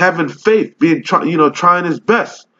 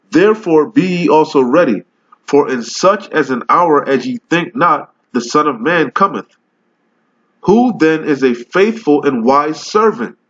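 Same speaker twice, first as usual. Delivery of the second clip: scripture reading. Acted. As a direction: read the verse like preaching it from the pulpit. Reads scripture aloud in preaching voice.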